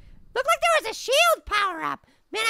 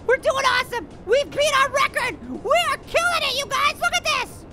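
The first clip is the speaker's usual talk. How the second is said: triumphant; 3 semitones higher than usual. Real, not acted. Player beating the record with viewers, triumphant.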